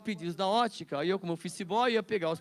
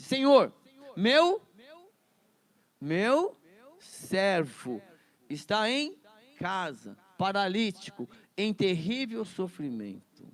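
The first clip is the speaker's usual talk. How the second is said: pleading centurion; 4 dB louder, slower than usual. Acted. Centurião implora a Jesus.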